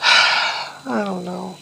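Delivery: sigh, then a slow, down I don't know; slow and down, close to tears; sad sigh. Real, not acted. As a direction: let it sink out of you slowly. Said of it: "kinda bumming out and crying a little bit".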